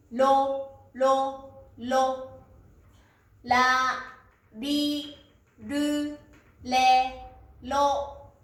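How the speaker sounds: ラ リ ル レ ロ each modelled separately, consonant near L; careful teacher's demo of ラ リ ル レ ロ with L-like R; L-like Japanese R. Shown as a demonstration. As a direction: drill ラ リ ル レ ロ syllable by syllable. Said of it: "L の音に少し近いです".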